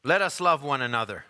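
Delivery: measured, solemn Bible reading; solemn King James reading voice; scripture reading. Acted. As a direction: read the verses out with reverence. Scripture reading before sermon.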